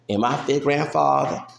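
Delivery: building to an angry near-shout; heated rant. Real, not acted. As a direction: hammer each name home, fired up. Heated rant about his ancestry.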